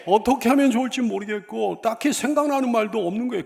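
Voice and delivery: usual speaking voice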